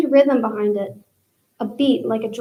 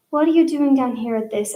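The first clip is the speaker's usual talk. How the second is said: cooing; 3 semitones higher than usual. Acted. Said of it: "she cooed".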